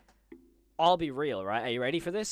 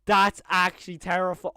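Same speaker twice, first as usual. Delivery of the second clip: 1 nervous laugh; 3 semitones higher, 9 dB louder, slower than usual. Real, not acted. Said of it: "That's terrifying!".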